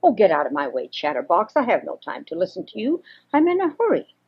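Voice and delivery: a touch of cross impatience, hurried at the end. Acted. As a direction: brush the squirrel off, mildly annoyed. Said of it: "just said in a cross voice".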